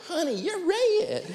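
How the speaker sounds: high, slow, laughing imitation of the wife; teasing wife. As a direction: draw it out, amused.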